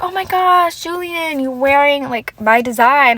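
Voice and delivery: high, fake-sweet mock gush; mocking gushing Jessica. Mocking Jessica faking surprise at Julian's outfit, high gush. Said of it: "she's like".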